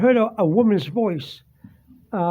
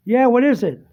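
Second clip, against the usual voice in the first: raised, slightly louder answering call; retold call back, pitched up; 4 semitones higher, 4 dB louder than usual. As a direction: answer someone calling from another room, mildly impatient. Calling back to sister, retold.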